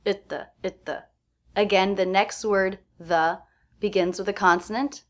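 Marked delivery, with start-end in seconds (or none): 0.1-1.0 "Itta" quick, with T held before "the"; reduced at, stop T. Shown as a demonstration. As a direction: stop the T, slide into "the". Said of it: "so it's a stop T".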